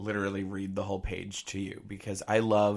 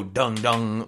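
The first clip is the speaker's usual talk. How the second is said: Law and Order sound; 6 dB louder than usual. Retold or imitated. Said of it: "like, Law and Order to me".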